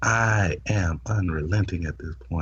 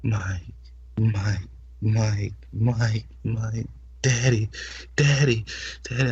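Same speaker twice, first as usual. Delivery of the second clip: moaning name; 3 semitones higher, slower than usual. Retold or imitated. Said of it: "she's like".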